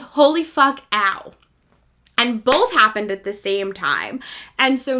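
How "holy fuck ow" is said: mock pained yelp. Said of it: "the other one that goes".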